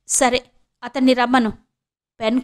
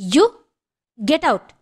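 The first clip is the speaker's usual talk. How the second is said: high, sharp cry of get out; shouting like a madwoman; 4 semitones higher, much slower than usual. A narrator's reading. Renuka screaming at her ex-husband to leave, high mock yell. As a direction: fling the words at him. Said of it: "పిచ్చిదానిలా అరిచింది రేణుక".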